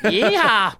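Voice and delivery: high, loud cowboy whoop in a twang; playful Kentucky twang whoop; hollered country twang. Pretend. Jokingly keeps up the requested twang.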